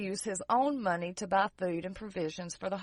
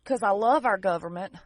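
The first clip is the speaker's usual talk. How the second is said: dry sarcastic tone; 4 dB louder than usual. Real, not acted. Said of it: "that was a sarcastic statement".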